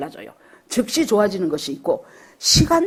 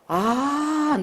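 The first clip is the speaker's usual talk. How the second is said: drawn-out, higher "ah" of insight; dawning realization; 7 semitones higher than usual. Retold or imitated. Missionary understands her own pain at last, with realization. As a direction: let the retold realization land. Retold moment of sudden realization.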